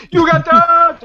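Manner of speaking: loud, high triumphant holler; mock prank shout. Shown as a demonstration. Prankster to worker leaning in, loud high mock shout. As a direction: yell it as the prank's punchline. Demonstrating the air horn prank.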